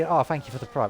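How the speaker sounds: light imitation of a Twitch streamer; breezy offhand shoutout, lightly mimicked; big streamer imitation. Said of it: "the big Twitch streamers".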